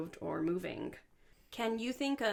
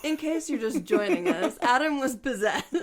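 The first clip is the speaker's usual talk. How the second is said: announcer voice; 6 semitones higher, 9 dB louder than usual. Pretend. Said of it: "I just wanna come in afterward and be like".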